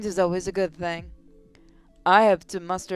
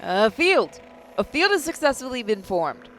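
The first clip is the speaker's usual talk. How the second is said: shaky, thrilled and nervous; 4 semitones higher than usual. Acted. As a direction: voice trembling with excitement. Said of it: "Sorry for my shaky voice".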